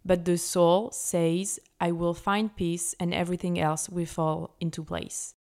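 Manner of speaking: English read with her own French accent, slow and careful. Shown as a demonstration. Sharing an English quote with listeners, French-accented English. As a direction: try your best English, French accent showing. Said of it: "mon accent, je vais essayer de faire au mieux".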